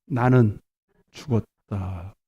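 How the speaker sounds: low, slow and dying away; subdued declaration. Shown as a demonstration. Preacher modelling surrender when anger rises, subdued. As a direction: let it sink down softly, drawing out the last word.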